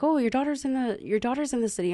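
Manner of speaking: excited news. Retold or imitated. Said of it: "my cousin came up to me and was like".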